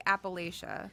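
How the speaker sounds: Appalachia with LAY in the middle; supposedly wrong pronunciation. Shown as a demonstration. Speaker admits a habit, Appalachia said appa-LAY-shuh. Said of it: "I've been saying it wrong".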